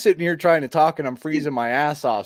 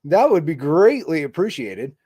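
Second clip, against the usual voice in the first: holding back a shiver in the voice; speaking while freezing, fighting the shiver; shivering from cold. Real, not acted. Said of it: "trying not to have, like, the shiver voice".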